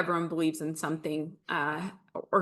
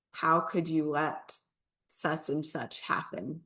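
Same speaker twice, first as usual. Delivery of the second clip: retold weeping anger. Retelling her tearful outburst at God alone in the car, subdued. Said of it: "I just started weeping".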